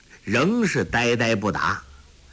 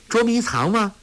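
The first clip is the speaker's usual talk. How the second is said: laughing; 11 semitones higher than usual. A narrator's reading. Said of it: "笑道".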